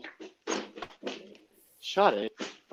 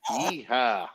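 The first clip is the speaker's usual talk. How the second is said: a low, soft mock American yeehaw; lazy cowboy call in an American accent; a quiet American-accent yeehaw; 4 semitones lower, 6 dB quieter than usual. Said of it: "best American accent I ever heard".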